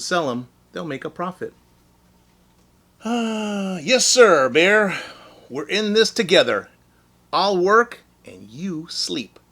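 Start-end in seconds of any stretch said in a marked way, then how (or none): 3.0-9.4 high, eager flattering voice; butter him up sweetly; fawning Hare. Acted. Hare flattering lazy Bear into his scheme, eager and high.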